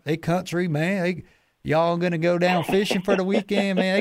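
a casual mock Georgia good-ol'-boy accent; Georgia country accent. Telling the Boston guest how Georgia folks talk, light mock Georgia country accent. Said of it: "down here in Georgia, people talk".

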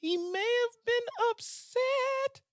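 very high, slow, sing-song voice; mocking the mayor of Scottsdale in a high singsong; mock falsetto. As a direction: float it up in a teasing falsetto.

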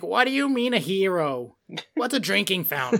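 lightly voiced cross old lady, imitated; a hint of an indignant old woman; mock-baffled old lady, mildly put on; angry old lady. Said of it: "just angry old lady came out".

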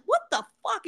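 high startled outburst; a sharp high mock shock; shocked what the fuck. The Godfather reacting to the car, startled high.

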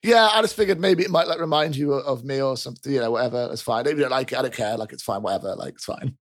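shy guard fading out while denying he cares; awkward shrug-off. Acted. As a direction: play it cool while embarrassed, shrinking away. Awkward NPC giving drawing.

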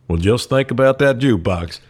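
lightly put-on country-boy voice; country accent. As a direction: imitate the neighbor's country parting remark. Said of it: "I will do his accent".

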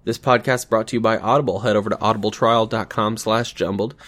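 loud, upbeat sponsor read; projected host-read advert; podcast ad read. Acted. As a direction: read the sponsor spot with punch. Reads sponsor ad for Audible.

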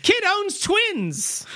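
high, very slow headline proclamation; stretched-out mock newsreel announcement; newspaper headline voice. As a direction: proclaim it like a spinning front page. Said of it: "the spinning newspaper".

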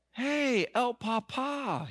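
high, drawn-out cheery hail; playful calling out. Retold or imitated. Son hailing his father on the road, high and playful. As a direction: sing out a jaunty greeting.

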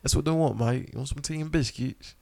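hammed-up amateur British accent; put-on British accent. Echoing co-host's tea and biscuits, mock British accent. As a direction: mimic a Brit offering refreshments. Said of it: "I just love how British people talk".

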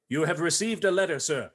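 overacted melodrama line; lightly hammed-up Victorian actor; hammy stage actor. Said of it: "Overacting, not a thing".

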